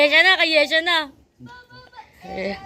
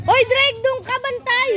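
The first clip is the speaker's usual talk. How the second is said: calling out; 5 semitones higher than usual. Real, not acted. Calling out to a player.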